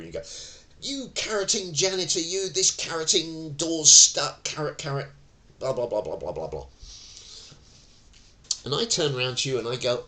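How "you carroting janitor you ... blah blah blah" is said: higher, shouted rant at the janitor; mock angry shout. Tenant yells at the janitor over a stuck door, hammed-up anger. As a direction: play the furious tenant yelling about the stuck door. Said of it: "call me up or shout at me".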